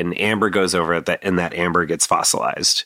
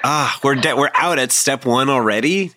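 surprised; 6 semitones higher than usual. Real, not acted. Host reacts to quick debunk.

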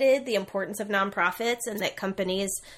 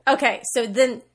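ordinary delivery

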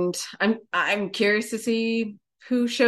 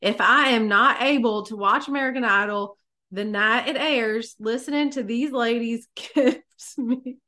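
country accent; 3 semitones higher than usual. Shown as a demonstration. Co-host reading a listener review on request, country accent. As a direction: put on a Southern country twang for the reading. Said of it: "read this review in a country accent".

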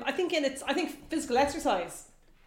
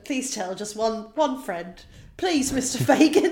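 pleading student; slower than usual. Retold or imitated. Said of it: "I didn't like that at all".

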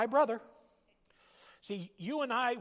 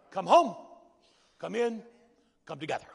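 called out; 5 dB louder than usual. Acted. Refrain called out loud.

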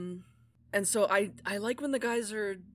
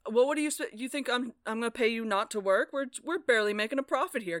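raised, indignant penny-pincher; a hint of an outraged cheapskate producer; stingy boss; 4 semitones higher, 4 dB louder, faster than usual. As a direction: scoff at the idea of paying. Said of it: "Dibbler's like".

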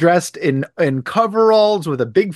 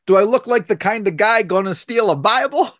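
a mock Italian accent, pitched up; 7 semitones higher, faster than usual. Max asking the house staff, in a mock Italian accent. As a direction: put on a hammy Italian accent like Life with Luigi. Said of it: "in this Italian accent that's Life with Luigi".

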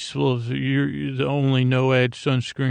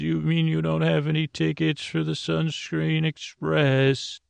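playful feigned surprise, a touch higher; mock conductor; 4 semitones higher than usual. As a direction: tease the kids like a conductor.

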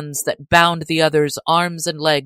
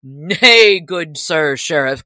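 cried out; 6 dB louder, slower than usual. A narrator's reading. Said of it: "cried he".

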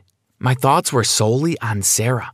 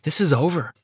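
higher-pitched, quiet finality; firm; 6 semitones higher, 3 dB quieter than usual. Acted. Sarah breaks up with Brad, firm. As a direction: end it firmly, without shouting. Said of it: "she said firmly".

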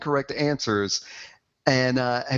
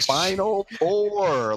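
slow repeated question; 8 semitones higher, much slower than usual. Retold or imitated. Man repeating question to Siri.

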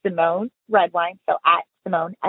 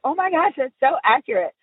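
mock impressed girls; 5 semitones higher than usual. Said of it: "They're like".

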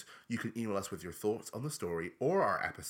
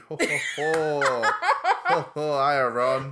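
jolly Santa-like ho ho; 3 semitones higher, 6 dB louder, slower than usual. Pretend. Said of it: "That was smashing".

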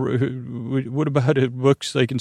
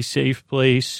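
soothing. Pretend. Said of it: "pat it and rub it down and say".

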